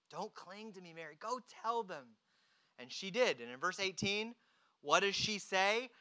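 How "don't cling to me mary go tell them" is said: soft acted instruction; gentle urging. Jesus tells clinging Mary to go, gentle urging. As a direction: urge softly, without rebuke.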